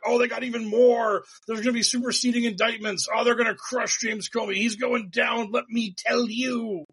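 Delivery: a light send-up of a cocky pundit; gloating pundit. Retold or imitated. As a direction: brag like a sure-of-himself pundit. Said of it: "John Solomon being like".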